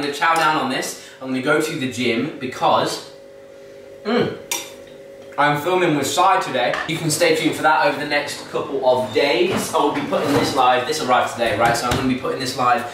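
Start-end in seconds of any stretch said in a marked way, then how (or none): 0.0-11.9 talking while chewing; mouth full. Real, not acted. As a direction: between spoonfuls of oats. Seen 1: Spoonfuls to mouth from -4 to 0.9; talks chewing, hand at mouth.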